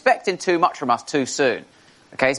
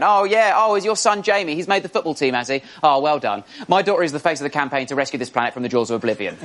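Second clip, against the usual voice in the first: smug parent. Retold or imitated. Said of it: "With their parents just going".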